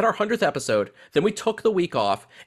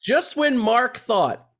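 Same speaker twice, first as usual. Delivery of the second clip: drawn-out dramatic movie teaser; hammed-up tagline with suspenseful pauses; mock trailer tagline. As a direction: tease it like a film trailer, stretching key phrases. Parody movie tagline introducing co-host.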